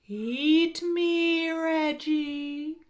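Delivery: loud, drawn-out husky talking-food voice; husky hot dog voice. A narrator's reading. Talking hot dog to hungry Reggie, husky and coaxing. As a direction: tempt him in a husky hot-doggy voice. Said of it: "in its husky, hot doggy voice".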